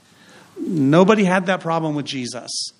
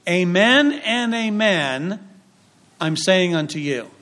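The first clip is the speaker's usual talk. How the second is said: Hebraic phrasing. Shown as a demonstration. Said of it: "in the Hebraic expression is".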